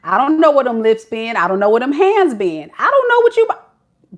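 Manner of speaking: loud, fast dismissive rant; voicing Shay. Reader voicing Shay brushing the man off, loud and fast. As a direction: rattle off her suspicions loudly. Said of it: "this is my girl Shay saying".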